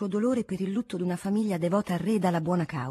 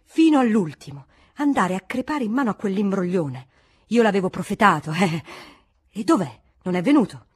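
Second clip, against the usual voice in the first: grumbling rant; 6 dB louder than usual. Acted. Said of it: "continuando a parlar solo".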